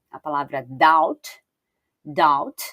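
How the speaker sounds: "doubt" said as "dout", no b sound; silent b in doubt. Shown as a demonstration. Teacher showing students "doubt" with a silent b. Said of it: "que não é pronunciado o B".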